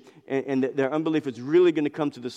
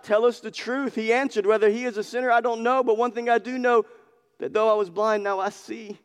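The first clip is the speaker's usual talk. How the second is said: emphatic testimony; 8 semitones higher, 3 dB louder than usual. Retold or imitated. Replayed answer, raised.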